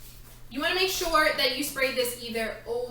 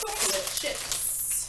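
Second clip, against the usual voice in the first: high, slow mock-British accent; 9 semitones higher, 4 dB quieter, slower than usual. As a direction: draw it out in a playful British accent. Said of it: "I'm speaking in a British accent".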